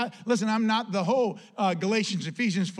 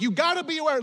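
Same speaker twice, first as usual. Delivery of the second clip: high-pitched mock scream, little extra volume; retold scream; 9 semitones higher, 4 dB louder than usual. Apostle warning of the Judaizers, mock screaming. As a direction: imitate an urgent cry, pitched way up. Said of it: "he's, like, screaming".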